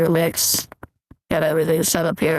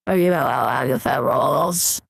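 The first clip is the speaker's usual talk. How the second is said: granny voice; 4 semitones lower than usual. Pretend. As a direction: lower old granny voice. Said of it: "I'll get rid of Granny voice".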